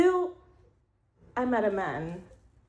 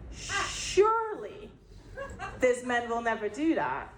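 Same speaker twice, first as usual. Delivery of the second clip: mock disbelief. To herself at the man, mock disbelief. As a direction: scoff at the idea he'd ever do it. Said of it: "And I'm like".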